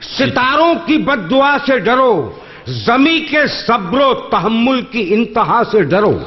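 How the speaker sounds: measured, lingering verse delivery; poetry recitation. Acted. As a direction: recite each line slowly for effect. Closing quatrain recital.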